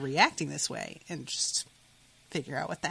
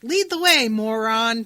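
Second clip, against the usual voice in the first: much higher and louder, teasing insult; brash mock shout; 3 semitones higher, 9 dB louder than usual. Boy says it to Charles earlier in the book, brash shout. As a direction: call it out with hammed-up bravado. Voicing Calvin mocking Charles.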